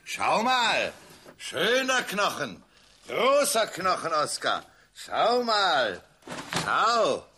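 coaxing sing-song to a pet; talking to a dog. Acted. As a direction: sweet-talk the dog closer. Man coaxing his dog.

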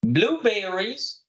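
very slow "Blueberries", syllable by syllable; slow model word. Shown as a demonstration. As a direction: say it slowly for them to repeat. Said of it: "يا ريت نردد مع بعض".

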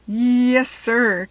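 a hint of a grown-up voice; lightly voiced lunch lady; slightly voiced grown-up answer. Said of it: "in Lucille's low, grown-up voice".

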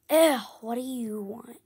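mock disgusted snap at a customer; annoyed. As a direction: put on an irritated voice for the retelling. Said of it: "in an annoying voice".

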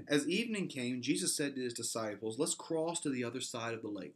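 reading the verses aloud to the congregation; scripture reading. Acted. Pastor reads Mark to his church, reading aloud.

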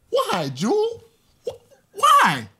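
crying out at ex for an answer; anguished cry. Acted. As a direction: plead through tears. Pleading, breaking down.

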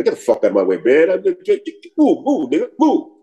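lightly acted impatient American dismissal; mock street brush-off. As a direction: brush someone aside, pitch climbing on each "move".

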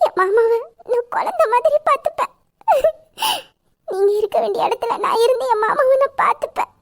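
crying promise. Acted. Wife crying, promising to care.

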